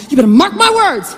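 lightly voiced stern father, firm emphasis; stern dad. Dad warning his little girl, firm. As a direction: give it a hint of fatherly warning. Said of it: "My dad would say".

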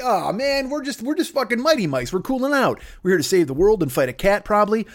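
high whiny mock complaint; mad Mighty Mice. Regular Mighty Mice complaining, high whiny voice. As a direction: whine like an annoyed cartoon mouse. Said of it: "They're like".

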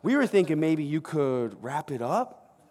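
politely awkward, nervous flattery; butter him up before the ask; sheepish interruption. Retold or imitated. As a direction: Peter interrupting Jesus mid-sermon, awkwardly polite. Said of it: "Peter actually kind of interrupted Jesus".

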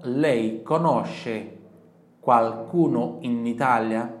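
very slow, loud, stretched; slow model question. Shown as a demonstration. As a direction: drill the question slowly. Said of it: "Repita em voz alta". (pergunta lenta e alta)

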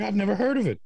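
lightly voiced clueless American; mock American. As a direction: play the baffled tourist. Retold American reply.

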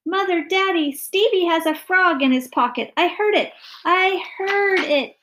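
put-on high, loud shrieking child; screaming girl. A narrator's reading. Daughter screaming to parents about a frog, alarmed. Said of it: "interrupted by a loud scream from Sally".

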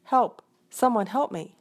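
high, pleading cries for help; a small voice begging someone to come; calling for help. A narrator's reading. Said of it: "they heard a faint voice calling".

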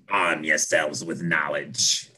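deep gravelly voice. Retold or imitated. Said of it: "deep, gravelly voice goes".

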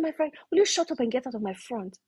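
retold anger. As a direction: re-enact a mildly angry dismissal. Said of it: "I got very angry".

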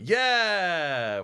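long, loud high cheer; high, loud mock cheering; acted enthusiasm. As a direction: draw out a big delighted yeah. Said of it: "And then I'm like".

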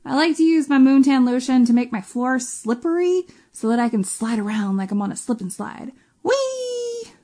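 lightly voiced evil overlord, gleeful; a hint of a sinister ruler at play; Leechmaster Von Parasite. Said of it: "Leechmaster Von Parasite, the global leader of human consumption ... claims".

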